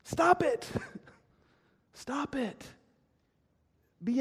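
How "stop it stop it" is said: stern command. Acted. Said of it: "what does Paul say".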